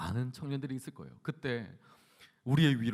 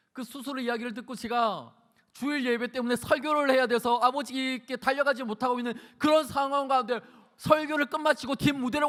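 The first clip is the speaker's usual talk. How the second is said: high-pitched, urgent testimony; impassioned preaching; 9 semitones higher, 6 dB louder than usual. Acted. Preacher recalling weeping over father's surgery, impassioned preaching. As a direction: pour out the story to the congregation.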